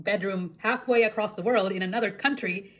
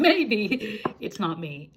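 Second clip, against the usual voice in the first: laughing; 2 semitones higher, much slower than usual. Real, not acted. Laughing at own childhood realization.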